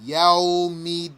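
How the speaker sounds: "Yawmiddin" with the d held doubled; doubled dal. Shown as a demonstration. Teacher correcting people who say midin, doubled d. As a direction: lean on the double d. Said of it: "You have to double it".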